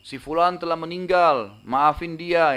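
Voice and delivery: mock announcing shout. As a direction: call it out as from a tower. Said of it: "naik ke atas menara teriak".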